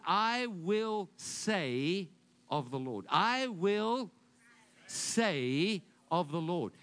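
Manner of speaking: drawn-out, stressed "I will say"; slow emphatic reading. Shown as a demonstration. Preacher quoting Moses, slowed and stressed. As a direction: linger on "I will say of the Lord" slowly. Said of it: "He said".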